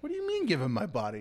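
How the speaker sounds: mock shocked hero; mock incredulous. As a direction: fire it back in disbelief. Hero reply, faster higher.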